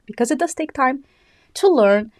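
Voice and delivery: winded, gasping between words; running out of breath mid-sentence. Real, not acted. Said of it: "running out of breath today".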